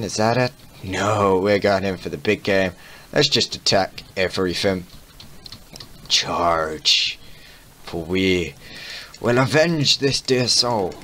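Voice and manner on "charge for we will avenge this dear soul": hammed-up knightly charge, slow; rally the troops like an old knight; mock heroic battle cry.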